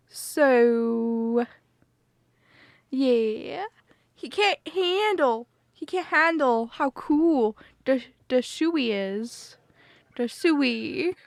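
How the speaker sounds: drawling jumble of put-on accents; accent mashup. Shown as a demonstration. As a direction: keep the mixed-up accent going. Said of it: "one minute of accent mashup".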